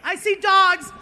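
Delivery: high, squealing rush of apologies and delight; gushing barista. Retold or imitated. Comic telling of the barista squealing over his dogs. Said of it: "and she's like".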